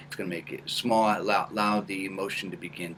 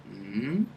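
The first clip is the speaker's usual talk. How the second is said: rising hum; 3 dB quieter than usual. Shown as a demonstration. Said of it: "Do it again".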